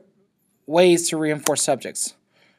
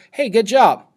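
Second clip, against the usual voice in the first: enthusiastic praise; 5 semitones higher, 4 dB louder than usual. Retold or imitated. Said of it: "Kid gets water".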